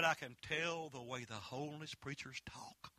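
soft, breathy whisper of the waitress; whispered aside. Retold or imitated. Pancake house waitress telling the preacher, whispered aside. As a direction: let the waitress whisper it like a secret. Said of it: "She said".

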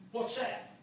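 very soft question; quietly puzzled. Retold or imitated. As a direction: ask it under your voice, puzzled. First telling of puzzled question.

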